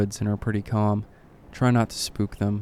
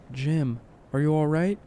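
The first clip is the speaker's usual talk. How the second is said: higher, rising questioning call; distant but clear; 5 semitones higher than usual. A narrator's reading. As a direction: call to a friend from afar, lightly. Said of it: "distant but clear".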